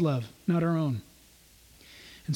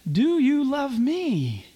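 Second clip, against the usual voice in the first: earnest question; 4 semitones higher, much slower than usual. Retold or imitated. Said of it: "Jesus says".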